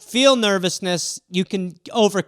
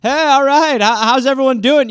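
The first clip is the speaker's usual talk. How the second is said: higher, louder cheerful emcee greeting; fake-confident host; 4 semitones higher, 4 dB louder than usual. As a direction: hide the nerves with breezy cheer. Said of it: "be like".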